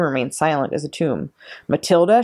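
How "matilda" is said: roaring. A narrator's reading. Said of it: "she roared".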